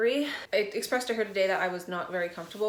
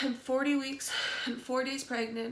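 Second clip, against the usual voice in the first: high, wet voice on the edge of tears; crying without knowing why, voice keeps catching; teary crying voice; 5 semitones higher than usual. Real, not acted. Overwhelmed pregnant mom tearing up on camera, crying. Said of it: "I don't know why I'm crying".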